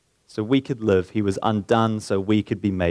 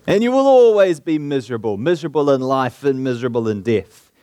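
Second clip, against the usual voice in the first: preacher's shout; 2 semitones higher, 4 dB louder than usual. Retold or imitated. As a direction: thunder it like an old Methodist preacher. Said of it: "he shouted as only a primitive Methodist could do".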